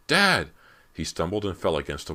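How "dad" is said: panicked shout, much higher and louder; frantic scream. A narrator's reading. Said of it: "Brant screamed frantically".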